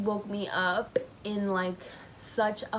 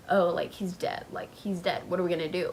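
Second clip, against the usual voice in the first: mock indifference, low-key; nonchalant imitation; 3 semitones lower than usual. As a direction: imitate someone who couldn't care less. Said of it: "so nonchalant".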